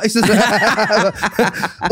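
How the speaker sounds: ordinary delivery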